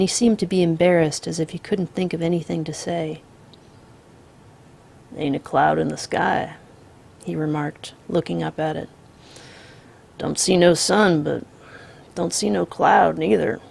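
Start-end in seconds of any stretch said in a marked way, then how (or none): 5.2-13.6 calm drawling outlaw. Acted. The Misfit voiced.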